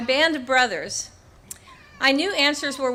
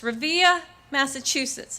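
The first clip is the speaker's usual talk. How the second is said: put-on Boston accent; 3 semitones higher than usual. Remembering the Marine's hometown, light Boston accent. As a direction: mimic a Boston Marine saying his hometown. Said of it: "as he would say in his Boston accent".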